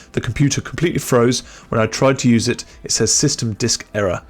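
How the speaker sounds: lightly voiced fussy author reading his email; pompous writer voice. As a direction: read it like a fretful writer. Reads customer email as Bruce.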